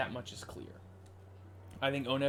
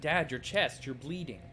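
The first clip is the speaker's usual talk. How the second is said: lightly voiced frightened daughter; acted alarm; 3 semitones higher than usual. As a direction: cry out in mock alarm. Voices daughter seeing father's wound.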